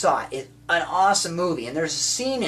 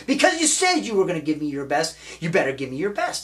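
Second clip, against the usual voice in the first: insistent coach; 3 semitones higher, faster than usual. Retold or imitated. Acting out coach demanding effort.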